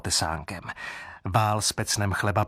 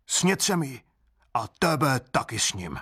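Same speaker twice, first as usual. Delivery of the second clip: lightly voiced greedy boy; 2 semitones higher than usual. Greedy boy threatens father.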